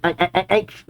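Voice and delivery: little high pained yelps; quick string of soft ows; mock ouches over thorns. Voicing Chopper running over thorns.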